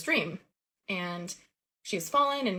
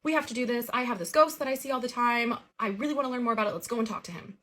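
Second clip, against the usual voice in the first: higher, louder imitation of eager excitement; excited cousin; 5 semitones higher, 3 dB louder than usual. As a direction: act out a cousin thrilled to try this. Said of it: "My cousin immediately gets excited".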